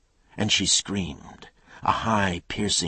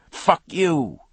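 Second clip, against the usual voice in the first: loud, much higher furious scream; screamed back; 13 semitones higher, 9 dB louder than usual. Acted. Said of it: "Coop screamed back".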